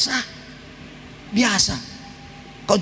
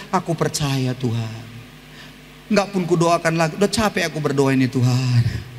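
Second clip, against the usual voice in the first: tearful prayer; 5 semitones lower than usual. Pretend. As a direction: pray like someone worn out, near tears. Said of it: "Nangis Anda".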